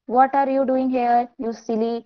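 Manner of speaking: very slow, careful English read-aloud. Shown as a demonstration. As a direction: read each word slowly for the class. Reading English story line.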